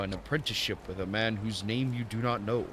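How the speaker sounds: botched mock-Japanese old master; Temu Japanese accent. Old master introducing himself, bad Japanese accent. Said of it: "doing some Temu Japanese accent".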